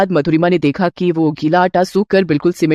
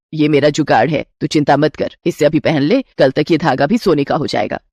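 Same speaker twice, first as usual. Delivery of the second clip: a doting mother-in-law offering a gift; 6 semitones lower than usual. Acted. Mother-in-law gives her new bride a gold ring, lower voice.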